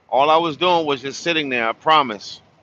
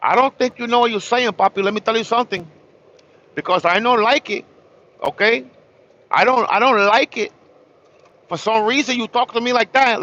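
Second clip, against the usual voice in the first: indignant rant; 4 semitones higher than usual. Real, not acted. Ranting at the absent tow guy.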